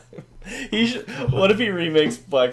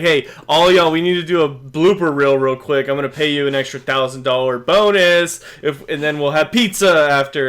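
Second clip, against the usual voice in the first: mock Tyler Perry; 4 dB louder than usual. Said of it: "He's like".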